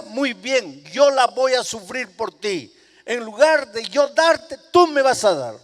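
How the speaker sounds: mother's heartbroken outburst; impassioned preaching. Acted. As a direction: proclaim it with fervor. Mother resolves to take punishment.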